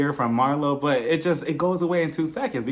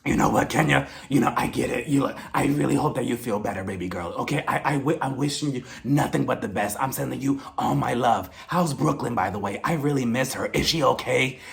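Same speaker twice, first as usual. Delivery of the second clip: lower, syrupy fake-concerned imitation; put-on caring voice, pitched down; mock concern; 3 semitones lower than usual. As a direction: imitate someone laying on sympathy. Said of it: "continues on with her concern".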